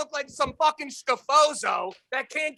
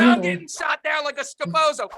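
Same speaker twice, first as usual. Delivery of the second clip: higher, louder joking yell; mock shout; 4 semitones higher, 3 dB louder than usual. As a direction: bark it at them for laughs. Mock rant.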